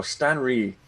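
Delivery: mock-Chinese accent, R for L in "Stanley". Shown as a demonstration. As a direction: say "Stanley" as Stan-ree in a put-on Chinese accent. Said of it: "for the Chinese, you gotta go".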